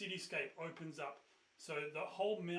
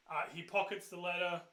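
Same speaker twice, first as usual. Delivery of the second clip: usual speaking voice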